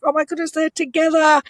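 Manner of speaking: high-pitched imitation of gushing guests; excited onlookers. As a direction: mimic a crowd thrilled to spot the couple.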